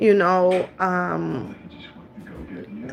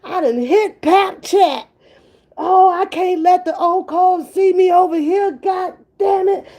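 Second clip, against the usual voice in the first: higher, louder, laughing mock panic; panicked newcomer; 5 semitones higher, 3 dB louder than usual. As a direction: blurt it like someone caught in the wrong room. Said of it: "She was like".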